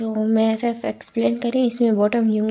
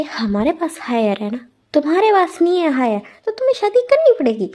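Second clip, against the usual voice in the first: stern father; 4 semitones higher than usual. Retold or imitated. Father laying down the law.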